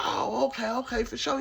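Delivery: put-on high, agreeable old man; old cellmate voice. Cellmate agreeing to watch the show, high and easy. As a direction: go high and nod along in the voice. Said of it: "He's like".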